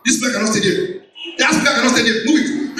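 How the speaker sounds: mock the rude order, rising as she goes; bossy vendor. Vendor bossing the sound crew around, mock rising voice.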